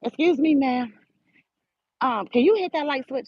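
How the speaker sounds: a light imitation of a rude girl; mocking rude girl. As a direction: play back her snippy tone, half-hearted. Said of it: "this how she talking to me".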